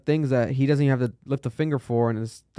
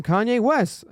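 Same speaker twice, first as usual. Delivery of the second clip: higher, drawn-out stage announcer; announcer introduction; 9 semitones higher, slower than usual. Retold or imitated. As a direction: introduce the star, stretching out the name. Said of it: "I think a singer introduces"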